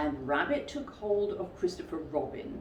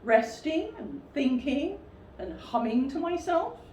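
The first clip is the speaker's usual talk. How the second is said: careless; 9 semitones higher than usual. Acted. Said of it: "said Pooh carelessly".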